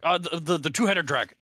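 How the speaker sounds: put-on high, loud doddering old man; old man mumbling. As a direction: stammer like a muddled old man. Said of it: "the old man grumble babble".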